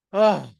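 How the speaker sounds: a long relieved "ah" as the body lets go; relieved sigh. Shown as a demonstration. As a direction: breathe out all the tension in one "ah". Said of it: "physically let your body go".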